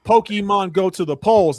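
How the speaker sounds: high, slow mock campaign quip; Hillary. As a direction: imitate a politician pleased with her own joke. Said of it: "She kinda reminded me of Hillary".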